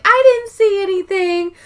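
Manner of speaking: put-on high, innocent girly voice; lightly voiced prissy woman; Kathy quote. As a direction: play it coy and innocent. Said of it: "she's like".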